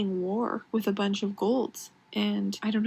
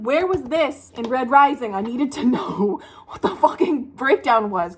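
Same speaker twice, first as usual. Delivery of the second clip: louder, higher retold exasperation; exasperated demand; 4 semitones higher, 4 dB louder than usual. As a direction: demand it in mock outrage. Acts out her past frustrated reaction.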